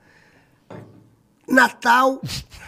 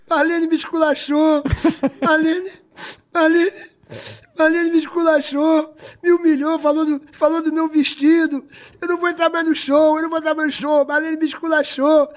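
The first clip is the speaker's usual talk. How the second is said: mock sobbing; 6 semitones higher than usual. Xuxa complains Marlene humiliated her, imitated sobbing wail. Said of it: "a Xuxa chorando aos prantos".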